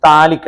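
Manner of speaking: "thallic" begun on a T sound, P silent. Shown as a demonstration. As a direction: say "thallic" without sounding any P. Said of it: "പിക്ക് pronunciation ഇല്ല". ("thallic" എന്നതിൽ പി ഉച്ചരിക്കാതെ)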